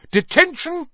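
high, loud furious shout. Acted. McGonagall catching Malfoy out of bed, shouting. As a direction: bellow it at the caught pupil. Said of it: "she shouted".

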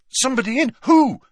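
loud, high, startled demand. A narrator's reading. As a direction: fire off urgent questions. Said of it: "demanded Harry".

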